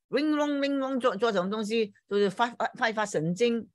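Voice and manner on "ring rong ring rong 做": messy ring rong noise. Shown as a demonstration. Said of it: "不要很整齐的".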